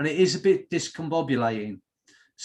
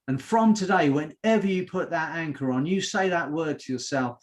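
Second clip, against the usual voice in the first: emphatic rhythmic build, each phrase opening stronger; hypnotic coaching. Real, not acted. Hypnotist anchoring confidence in the group, rhythmic coaching.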